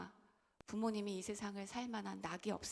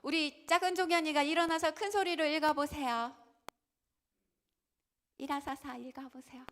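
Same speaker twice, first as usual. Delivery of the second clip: calling out; 7 semitones higher, 8 dB louder than usual. Real, not acted. Pastor calling on little 종현이 to read, loudly. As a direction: call out across the room.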